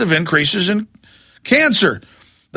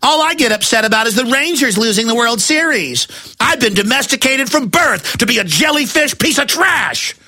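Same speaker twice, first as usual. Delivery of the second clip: mocking yuppie; 4 semitones higher than usual. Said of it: "they just go".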